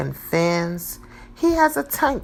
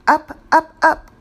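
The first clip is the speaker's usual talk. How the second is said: high, louder "up, up"; rising excitement; 9 semitones higher, 7 dB louder than usual. A narrator's reading. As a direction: lift the voice as bubbles rise. Bubbles rising in story.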